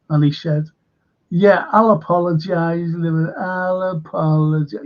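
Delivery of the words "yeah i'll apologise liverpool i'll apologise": mock grudging apology, condescendingly. Man mimicking a comedian's apology to Liverpool, condescending. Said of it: "You know that condescending fucking tone".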